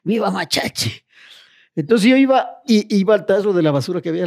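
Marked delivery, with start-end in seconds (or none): 0.0-0.9 imitating a drunk. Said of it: "yo comencé a imitarle".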